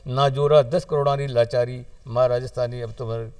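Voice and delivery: measured closing lines with pauses, settling down; verse prayer. Acted. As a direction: wind the plea down phrase by phrase. (अरदास री आखरी ओळियां, ठहर-ठहर र)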